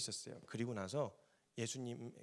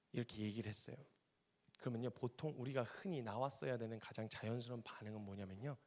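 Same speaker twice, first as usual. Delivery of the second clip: ordinary delivery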